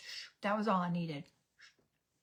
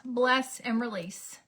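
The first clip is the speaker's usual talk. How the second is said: slow, deliberate repeat; slower than usual. Shown as a demonstration. Repeating her own phrase to viewers, slowly and deliberately. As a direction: bless and release said slowly, word by word.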